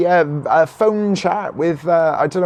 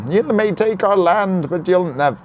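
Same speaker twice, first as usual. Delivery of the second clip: mock Scottish accent. Mock Scottish film quote, abandoned.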